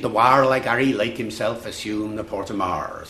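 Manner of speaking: original Shakespearean accent. Shown as a demonstration. Lecturer demonstrates the ancestor accent to an audience, original Shakespearean accent. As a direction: recite verse in an Early Modern English accent. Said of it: "you hear that accent".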